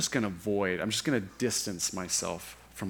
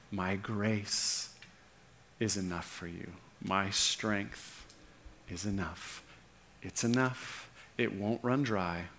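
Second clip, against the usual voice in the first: gentle reassurance; 3 semitones lower, 5 dB quieter than usual. Pretend. Pastor voicing the Lord's promise to the congregation, soft and reassuring. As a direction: reassure them quietly that it is enough. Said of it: "Where you need him to say".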